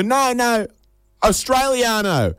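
high, drawn-out final word; eager correction. Acted. Traveller telling a foreigner he's not American, eager high correction. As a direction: correct them proudly, stretching the last word.

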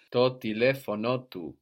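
"telefonotu" with stress on LE and again on NO; double accent. Shown as a demonstration. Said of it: "We double the accent".

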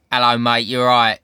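put-on matey Essex accent; low-pitched Essex geezer greeting. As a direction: slip straight into casual Essex. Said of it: "like, Essex area, so I just went".

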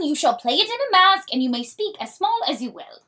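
dramatic play reading. Acted.

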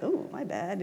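mildly sheepish mock apology. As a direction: own up with an embarrassed little retreat. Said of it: "And kinda like the sheepish".

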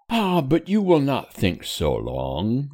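tender. Acted. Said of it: "rejoined Missus Temple with tenderness".

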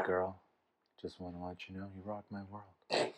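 a hint of a straight guy crooning; straight guy impression. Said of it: "Is that your impression of a straight guy".

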